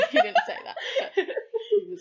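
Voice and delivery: talking through giggles; laughing. Real, not acted. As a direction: laugh out the words. Laughing while retelling abs story.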